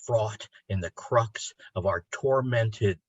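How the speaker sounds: incantatory poem recital, slow and rising; poetry reading. Acted. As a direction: chant the list like an invocation, building to a cry. Reads his ecstatic ode aloud.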